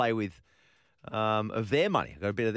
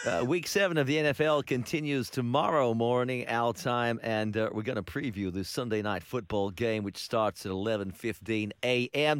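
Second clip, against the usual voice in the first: put-on American accent. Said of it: "you need some work on that, that accent".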